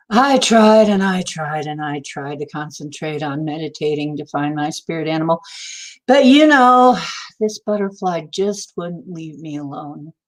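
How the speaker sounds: hammed-up earnest complaint, swelling then sinking; mock frustrated student. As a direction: act out an exasperated pupil reporting failure. Retold frustrated student reporting to teacher.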